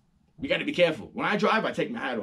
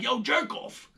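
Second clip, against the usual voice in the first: mock screaming; 6 semitones higher than usual. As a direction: yell it out the window like a New Yorker. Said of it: "start screaming at them like".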